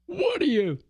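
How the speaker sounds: high, jeering put-down voice; mock taunt. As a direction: sneer it like a schoolyard taunt. Mock taunt in imagined encounter.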